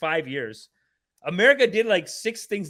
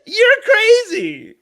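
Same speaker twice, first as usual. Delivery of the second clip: slow, loud, higher indignant yell; mock outrage; 11 semitones higher, 9 dB louder, much slower than usual. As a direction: stretch out each word in offended disbelief. Yelling back at the guest.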